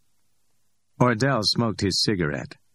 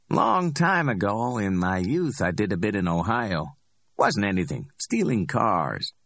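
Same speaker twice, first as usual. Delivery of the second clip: cocky Ordell; 3 semitones higher than usual. Acted. Ordell recalls prison.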